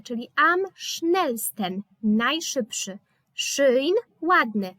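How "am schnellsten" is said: slow demo. Shown as a demonstration. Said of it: "sten końcówkę".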